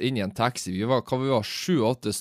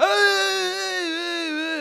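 very high, slow, drawn-out squealing cry; freaking out; much slower than usual. Retold or imitated. Fan in the toilet queue freaking out, drawn-out high shriek. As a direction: stretch each ei into a delighted shriek. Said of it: "klikker han helt i vinkelen".

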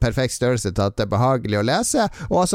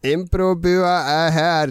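slow, higher presenter voice; mock show intro; 5 semitones higher, slower than usual. Host opens an improvised show, in mock presenter style. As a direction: announce the show, stretching the words.

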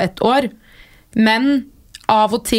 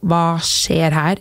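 baffled question; 5 semitones lower, slower than usual. Retold or imitated. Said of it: "jeg hadde blitt mer sånn".

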